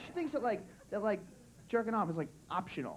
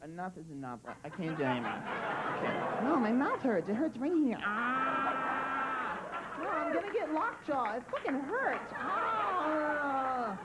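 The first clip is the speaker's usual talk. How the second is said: mock whiny girlfriend giving up; exhausted girlfriend; slower than usual. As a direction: whine that your jaw hurts, hammed up. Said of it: "where you're like".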